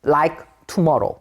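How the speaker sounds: "tomorrow" pronounced slowly as a sound model; "tomorrow" as a careful rhyme for borrow; rhyme example. Shown as a demonstration. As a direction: say "tomorrow" slowly, showing its -orrow ending. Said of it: "borrow라는 발음".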